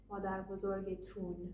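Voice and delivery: tun said with an oo vowel; spoken Persian tun. Shown as a demonstration. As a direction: round the ending into tun. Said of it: "Or in spoken Persian".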